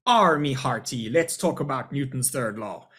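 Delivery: put-on a light, slowed pirate accent; a hint of a swaggering pirate accent. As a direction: ham up a brief pirate greeting. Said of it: "I'd love to do my pirate accent".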